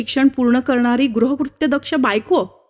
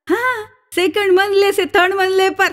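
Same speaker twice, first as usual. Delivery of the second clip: South Indian Hindi; 7 semitones higher than usual. Acted. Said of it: "मद्रदेशीय महाभाग".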